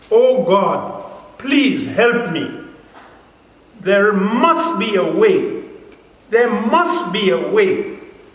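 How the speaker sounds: said loudly. Speaker retelling how he used to pray, retelling a loud prayer. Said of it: "I was saying in a loud voice".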